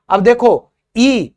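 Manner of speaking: drawn-out teacher's ee; long ee sound demo. Shown as a demonstration. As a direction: stretch the ई long and slow. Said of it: "ये होता है long ई की sound".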